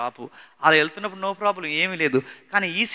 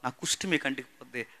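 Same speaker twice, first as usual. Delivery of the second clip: low, subdued imitation of weeping; understated tearful warning; retold tearful plea; 3 semitones lower than usual. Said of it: "ఏడుస్తుంది".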